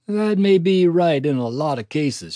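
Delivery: relieved country nurse; kindly nurse voice. A narrator's reading.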